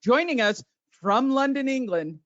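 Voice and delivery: put-on English accent for the intro; playful fake British announcer; mock British announcer. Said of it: "do you want me to do Evander?".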